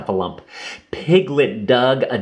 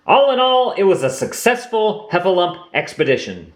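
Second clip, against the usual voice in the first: Rabbit's voice; 9 semitones higher than usual. Acted. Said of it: "declared Rabbit".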